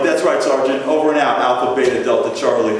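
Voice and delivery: loud, crisp military reply; hammed-up commando radio talk; mock military bark. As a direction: play the soldier to the Marine. Playing a commando to a Marine.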